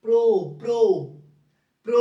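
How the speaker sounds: প্র repeated in short separate beats; প্র ধ্বনি আলাদা করে বলা; drilling the sound. Shown as a demonstration. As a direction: tap out প্র three times. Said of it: "এখানে উকার দিতে হবে".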